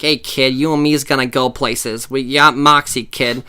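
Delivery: lightly voiced mobster; a hint of a mafia tough guy talking to a kid; mafia character. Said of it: "mafia character that I always do".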